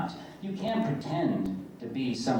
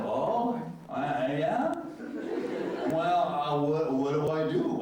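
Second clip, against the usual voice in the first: a light touch of nervous Rom, high and unsure; a lightly voiced hesitant Ferengi squeak; mildly imitating a flustered Rom; sounding like Rom; 4 semitones higher, slower than usual. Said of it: "I sound like Rom".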